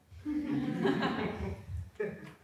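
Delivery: short breathy laugh. Acted. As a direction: laugh it off under your breath. Hangs up, laughs at caller.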